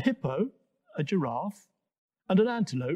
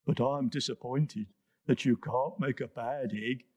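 deep bubbly hippo; 4 semitones lower than usual. Acted. Hippo speaks.

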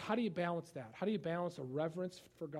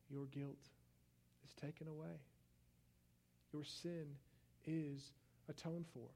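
tender voice of God; 11 dB quieter than usual. Acted. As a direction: lay the words down gently, like a pardon. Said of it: "God came to him and said".

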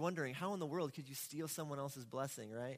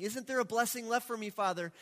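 pleading cry; 4 semitones higher, 5 dB louder than usual. Retold or imitated. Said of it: "He's crying and pleading with his father".

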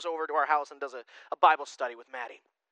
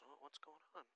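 mock confusion; 32 dB quieter than usual. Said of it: "almost everyone in here goes".

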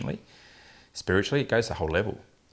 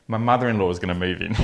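proud announcement. Retold or imitated. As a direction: announce it like the perfect plan. Patient's triumphant answer, retold.

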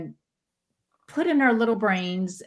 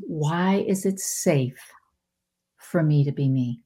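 whispered askfirmation; 3 semitones lower than usual. Shown as a demonstration. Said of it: "I still say it to this day".

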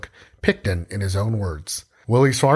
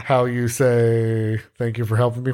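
mock French accent. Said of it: "Michael Scott over here in Canada".

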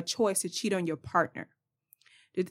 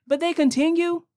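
pitched way up and loud in disbelief; outraged shout; 9 semitones higher, 6 dB louder than usual. Real, not acted. Vlogger to viewers, outraged shout. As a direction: burst out in outrage at the cheater.

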